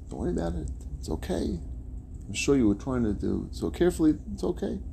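soft, soothing forgiveness; mild, forgiving voice of an unbothered man; acted reassurance. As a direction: gently brush it off, lifting softly on the okays. Unbothered man forgives spilled coffee.

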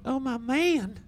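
high, breathless "oh my man"; swooning wife voice. Retold or imitated. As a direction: gush like an impressed wife. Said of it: "she'll be like".

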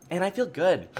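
wet mouth clicks while talking; smacky, clicky mouth sounds; mouth noises. Real, not acted. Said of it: "my mouth noises are really bad right now".

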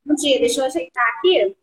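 slightly winded after teaching class; catching breath after dancing; after a workout. Real, not acted. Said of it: "Eu acabei a aula agora".

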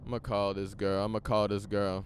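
normal talking voice

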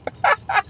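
high cackle; high burst of laughter. Real, not acted. Laughing at Bear's reply, high laugh.

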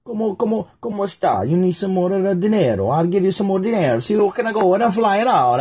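a cartoonish Italian accent pushing money. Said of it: "I keep doing the Italian voice".

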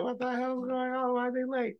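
mock panic. Drunk groomsman panicking about late friends, high mock voice. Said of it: "And I'm like".

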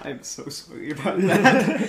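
laughing mock echo. Friend mockingly echoes the apology.

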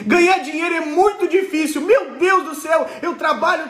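mock exhausted complaint to Anderson; weary worker. Acted broke worker complaining.

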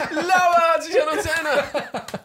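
high, loud giggly fan voice, slowed down; laughing mock fan. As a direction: squeal it through laughter like an excited fan. Mimicking the fans' reaction.

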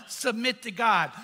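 slow, weighty "submit to God"; stressed point. Shown as a demonstration. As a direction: land "God" with a falling close. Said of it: "number one".

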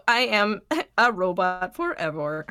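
joking robot voice, laughing; toy robot voice. Pretend. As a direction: playfully claim to be a robot. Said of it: "while you were talking robot speech".

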